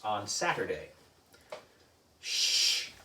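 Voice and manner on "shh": unvoiced hushing shh; shush. A narrator's reading. Narrator hushing readers about the secret mission, whispered shush. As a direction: hush the listener like a secret.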